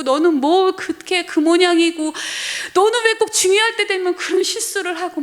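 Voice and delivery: a hint of a nagging mother scolding; mock scolding mother. Mother scolding her child, imitated with a high pitch. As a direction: mildly scold like an annoyed mom. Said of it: "항상 꾸중을 받고".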